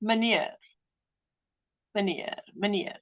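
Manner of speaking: meneer said the Afrikaans way, softly, as mə-NEER; Afrikaans pronunciation. Shown as a demonstration. Showing viewers how Afrikaans says meneer, soft and careful. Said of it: "that's how we would say it".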